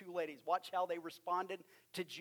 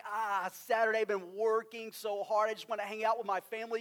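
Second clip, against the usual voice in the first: reluctant whine; 3 semitones higher, 3 dB louder than usual. Retold or imitated. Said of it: "hear it in their tone of voice".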